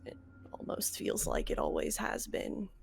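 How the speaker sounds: whispered, halting, queasy; barely holding down nausea; hushed and shaken. Acted. Player in character, nauseated, hushed.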